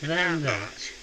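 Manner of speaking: slow warbling vibrato effect; slow wobble. Shown as a demonstration. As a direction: voice wobbling slowly. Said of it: "wobble slowly".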